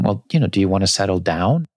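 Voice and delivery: ordinary talk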